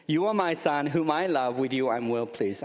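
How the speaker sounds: just say it in your own voice; the speaker's voice of God. Retold or imitated. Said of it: "you're stuck with Joseph's voice".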